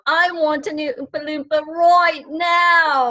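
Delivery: a hint of a bratty Veruca Salt whine; spoiled child demand. Guest quoting Willy Wonka, lightly voiced bratty demand. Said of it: "like Willy Wonka in the Chocolate Factory".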